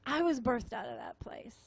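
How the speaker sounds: breathy intimate whisper; whispering her testimony to the room. Real, not acted. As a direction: drop to a hushed confession.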